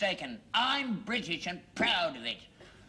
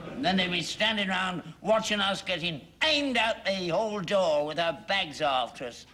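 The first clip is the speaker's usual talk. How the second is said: loud, rising indignant rant; 2 semitones higher, 4 dB louder than usual. Acted. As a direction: rant it out loudly at them. Indignant rant about being mocked abroad.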